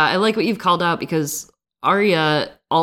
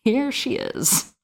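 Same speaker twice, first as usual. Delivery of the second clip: slow, higher, through a laugh; 9 semitones higher, 4 dB quieter, slower than usual. Shown as a demonstration. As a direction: let the laugh carry it.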